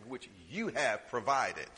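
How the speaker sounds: mock the rich man lightly, slowly; sarcastic. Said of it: "which he says it sarcastically".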